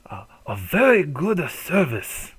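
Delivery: slow, lightly put-on old lady; a hint of a polite shop grandmother. Grandmother reassuring the customer, slow and lightly voiced.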